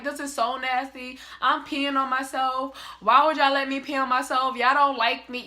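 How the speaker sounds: acted tearful whining; mock bawling. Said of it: "sitting there bawling, crying 'cause I'm like".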